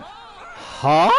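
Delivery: high confused huh; baffled huh. Retold or imitated. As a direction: react in disbelief. Confused reaction to a post.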